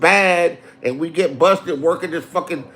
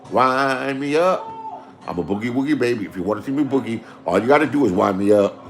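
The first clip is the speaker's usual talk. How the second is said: low, lightly voiced funky croon; hint of a spaced-out funk star; lightly imitating the friend's funk-star rap; funk-star talk; 5 semitones lower than usual. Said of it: "That's how he talked".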